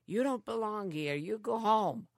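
bossy guard telling her off; stern soldier voice. Retold or imitated. Retold GI telling her to leave.

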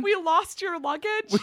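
high, slow mock announcement; airport announcement voice. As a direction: call it out like a gate agent. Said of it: "They kept just going".

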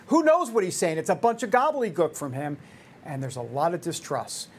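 winded after a fast rant; breathless; out of breath. Real, not acted. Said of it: "I'm out of breath".

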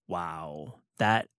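hushed, slow, awed muttering at prices; softly gawk at the price tags; quiet stunned shopper voice; mock sticker shock. Host voicing shopper's sticker shock.

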